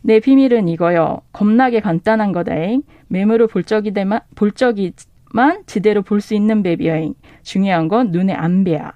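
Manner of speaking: reading the line in a Jeolla dialect, a bit awkward. Shown as a demonstration. 전라도 사투리로 어색하게 낭독. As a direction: bookseller reads the Jeolla version aloud to the host, Jeolla dialect. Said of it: "전라도 버전 에린 왕자에서는요".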